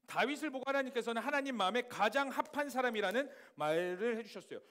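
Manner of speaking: normal talking voice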